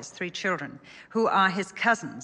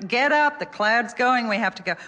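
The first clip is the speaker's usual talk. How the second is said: insistent parent; 5 semitones higher, 6 dB louder than usual. Retold or imitated.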